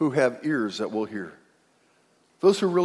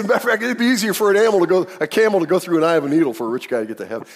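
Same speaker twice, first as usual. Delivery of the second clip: laughing retelling; 5 semitones higher, 5 dB louder, faster than usual. Retold or imitated. Retelling Jesus' joke, laughing.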